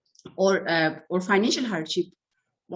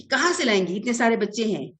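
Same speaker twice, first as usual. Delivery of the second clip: imitating a mildly scolding parent, pitched up; 3 semitones higher than usual. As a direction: act out an exasperated parent's reproach, lightly. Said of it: "हम उसको ऐसे डांटते हैं".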